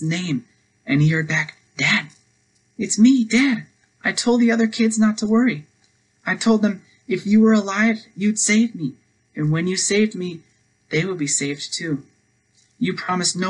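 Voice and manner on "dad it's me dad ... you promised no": put-on high, loud child's voice calling up to Dad; boy shouting up to his father through the debris; trapped son calling out. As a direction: call up from under the rubble, relieved.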